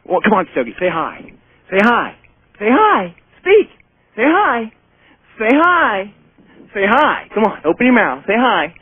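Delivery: coaxing the dog. Real, not acted. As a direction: coax a dog to speak.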